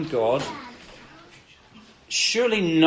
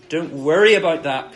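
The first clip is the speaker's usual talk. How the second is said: emphatic reassurance; 6 dB louder than usual. Retold or imitated. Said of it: "here Jesus is saying".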